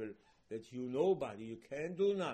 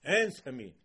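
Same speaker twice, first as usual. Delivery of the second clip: loud brazen "Answer me"; bold, loud "Answer me" to God; chutzpah; 10 dB louder, slower than usual. Retold or imitated. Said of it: "spoke to HaKadosh Baruch Hu with chutzpah".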